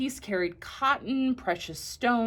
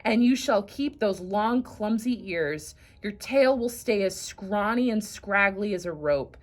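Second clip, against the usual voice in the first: loud, stern pronouncement; furious God; 4 dB louder than usual. Acted. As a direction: condemn the donkey with force. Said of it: "God was furious".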